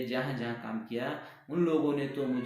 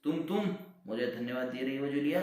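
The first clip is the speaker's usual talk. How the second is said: raised voice, almost shouting; angry master, voice raised; angry near-shout; 3 semitones higher, 4 dB louder than usual. Acted. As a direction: lose your temper at Julia. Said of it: "ऊंचे स्वर में चिल्लाते हुए".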